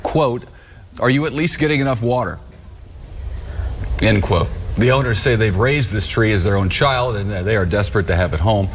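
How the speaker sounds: holding back giggles while reading; suppressed laughter; trying not to laugh. Real, not acted. Anchor reading through suppressed laughter.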